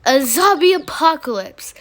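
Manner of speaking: a zombie apocalypse, as if absurd; mocking disbelief. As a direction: scoff it back at them. Stranger echoes in disbelief.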